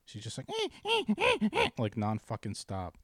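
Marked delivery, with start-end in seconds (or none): 0.5-1.7 very high, repeated squeaky whines; dog whining imitation. Owner imitating his dog at training, shrill whining. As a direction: yelp like a crying dog, over and over. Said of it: "but she just cries".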